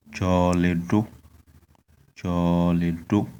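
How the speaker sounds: choledo rising on the final o; tone on last o. Shown as a demonstration. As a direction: end choledo with a tone on the o. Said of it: "the tone is on the last vowel".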